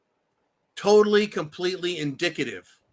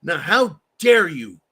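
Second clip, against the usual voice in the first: caller quote; 4 semitones higher, 5 dB louder than usual. Retold or imitated. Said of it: "Diving Frog says".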